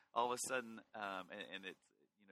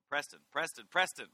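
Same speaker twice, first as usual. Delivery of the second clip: exasperated calling, higher and louder; total frustration; 5 semitones higher, 10 dB louder than usual. Acted. Parent trying to get a child's attention, frustrated call. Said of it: "it's one of total frustration".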